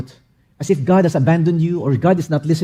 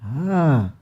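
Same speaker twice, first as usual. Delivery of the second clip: ordinary talk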